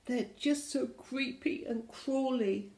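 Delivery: a touch of squeamish dread; wailing. Acted. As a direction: wail lightly in storybook fear. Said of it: "wailed the Gigantosaurus".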